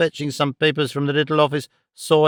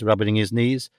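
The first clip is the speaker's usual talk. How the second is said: plain reading voice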